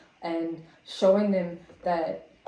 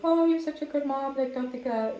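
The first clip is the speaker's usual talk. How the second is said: higher-pitched reassuring daughter, retold; imitated reassurance; 7 semitones higher than usual. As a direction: lightly voice a daughter consoling mom. Voices daughter reassuring her.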